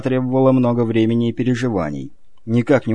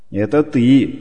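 ironic; slower than usual. Acted. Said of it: "с иронией отозвался собеседник".

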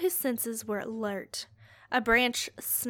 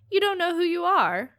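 gruff voice; 6 semitones higher, 6 dB louder than usual. Acted. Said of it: "said a gruff voice".

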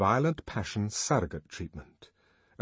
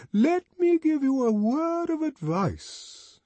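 louder, much higher, very slow solemn; solemn severity; 5 dB louder, slower than usual. A narrator's reading. Songster rebuking Bernard, loud solemn slow severity. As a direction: pronounce it like a stern sentence. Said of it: "loud and solemn severity".

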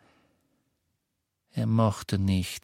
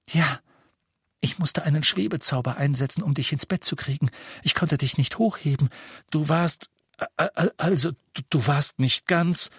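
higher, fast, stammering explanation; flustered girl's voice; 6 semitones higher, faster than usual. A narrator's reading. Hermione tells Harry how she got him to bed, flustered. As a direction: rush through it, embarrassed.

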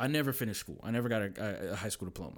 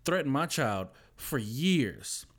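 angry mom; 5 semitones higher, 4 dB louder than usual. Retold or imitated. Mom confronts bully's grandma.

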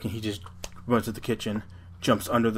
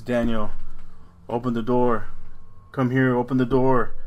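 louder calling mom; 6 dB louder than usual. Retold or imitated. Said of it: "And it's".

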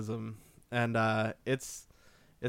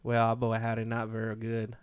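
southern accent. Shown as a demonstration. Guest auditioning for the podcast hosts, southern accent. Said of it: "how are you with a southern accent".

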